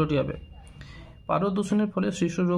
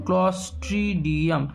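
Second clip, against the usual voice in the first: slow, careful; slower than usual. Shown as a demonstration. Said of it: "spelling দেবে Clostridium".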